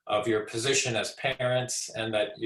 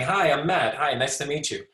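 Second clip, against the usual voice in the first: friendly, animated introduction; smiling greeting; 3 dB louder than usual. Shown as a demonstration. Lecturer showing a greeting with nonverbal communication, smiling and friendly. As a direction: greet someone new with an audible smile. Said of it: "missing the smile that's saying".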